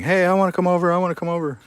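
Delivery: high, squeaky pretend dog voice; dog's voice. Owner voicing his dog wanting to play, high squeaky pretend voice. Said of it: "he's literally just saying".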